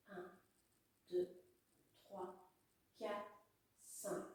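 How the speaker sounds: counting with breath held; holding breath. Real, not acted. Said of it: "Je bloque".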